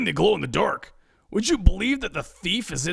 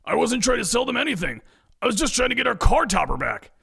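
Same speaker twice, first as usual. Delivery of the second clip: higher-pitched, exasperated protest; pleading, pitched-up self-defence; frustrated, confused; 9 semitones higher, faster than usual. A narrator's reading. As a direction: explain it in frustration. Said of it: "a frustrated and confused Ed tries to explain".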